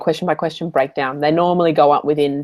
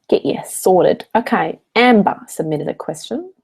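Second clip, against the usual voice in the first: talking with a mouthful; words around a bite of food; mouth full; 3 semitones higher, slower than usual. Real, not acted. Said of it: "Sorry, I've got food in my mouth".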